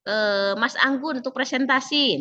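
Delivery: lightly voiced coach giving the floor; coach inviting. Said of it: "kalau kosnya".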